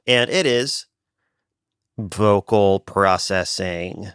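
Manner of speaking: slow, drawn-out AM radio announcer; milk each word like a late-night DJ. Acted. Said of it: "talking like a A M radio D J right now".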